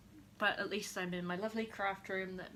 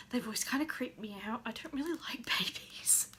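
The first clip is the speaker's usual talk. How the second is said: whispered confession. Real, not acted. Confessing dislike of babies.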